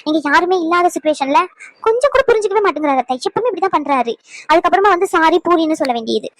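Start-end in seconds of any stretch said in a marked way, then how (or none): 1.9-4.1 high, fast, fed-up grumble; exasperated complaint. Acted. Wife complains to mother-in-law about husband, exasperated. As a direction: pour out your frustration quickly.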